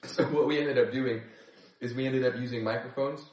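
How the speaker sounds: talking with a numb tongue; words thick from a burning mouth. Real, not acted. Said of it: "My tongue is numb".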